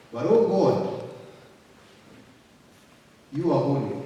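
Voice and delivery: earnest pleading prayer, loud in places; fervent prayer. Shown as a demonstration. Preacher praying aloud to the congregation, fervent and pleading. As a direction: cry out to God in prayer.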